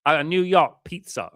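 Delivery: high, loud, drawn-out mock New York accent; exaggerated New York accent attempt; bad New York accent. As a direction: ham up a New Yorker, slow and loud. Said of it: "I can't do the accent, bro".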